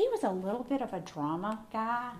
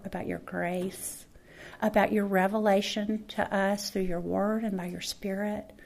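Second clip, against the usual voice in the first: closing prayer. Acted. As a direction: pray over the congregation tenderly.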